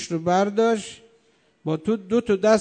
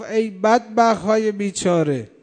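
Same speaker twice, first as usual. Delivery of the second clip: retold outcry; 4 dB louder than usual. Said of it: "بعد فریاد زد".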